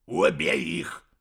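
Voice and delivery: stern command. A narrator's reading. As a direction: order the kill. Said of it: "тут же велел".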